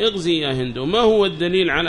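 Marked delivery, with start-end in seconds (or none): 0.0-0.8 "اغزي" begun with a short i, as ighzi; initial i vowel. Shown as a demonstration. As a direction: say "اغزي" with kasra on the opening hamza. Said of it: "نقول". («اغزي» بكسر الهمزة)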